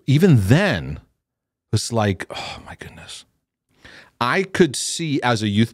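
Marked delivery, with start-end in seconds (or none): 2.3-3.2 breathy whispered aside; hushed oh my goodness. Real, not acted. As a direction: whisper it to yourself in dismay. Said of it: "whispered aside".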